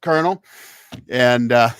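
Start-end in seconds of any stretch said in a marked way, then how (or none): 0.0-0.4 louder, sharp rebuke; mild mock dressing-down; stern general. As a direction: put the lieutenant in his place. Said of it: "he looked over at him and he said".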